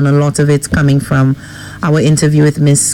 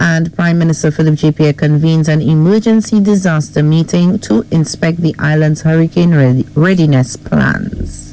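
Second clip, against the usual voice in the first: measured newsreader delivery; news headline read. Real, not acted. Co-host reads morning headlines to host and listeners, newsreader style. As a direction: read out the headlines as a radio presenter.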